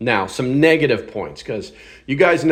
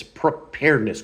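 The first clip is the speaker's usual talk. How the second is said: a dry, lightly ironic preparedness with a falling end; air-quote sarcasm; 2 semitones higher than usual. Shown as a demonstration. Reviewer teasing the prepper buzzword with dry irony. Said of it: "quote fingers activated".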